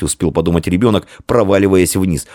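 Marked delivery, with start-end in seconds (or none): none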